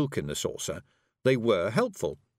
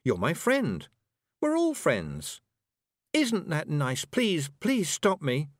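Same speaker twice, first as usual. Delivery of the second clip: sweet, drawn-out friendliness turning to a higher plea; happily; 6 semitones higher, slower than usual. A narrator's reading. Tiffany telling Anagramma they're friends, happily, then pleading. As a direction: start happy, then rise into a slow plea. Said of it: "she said happily".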